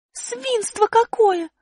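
высоко и очень медленно, негодуя; Аля про себя возмущается; возмущение. Acted. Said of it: "думала она". (высокое медленное возмущение)

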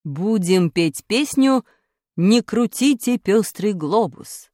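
stern teacher quizzing class; strict teacher. Acted. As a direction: demand to know who has talent. Teacher announcing song.

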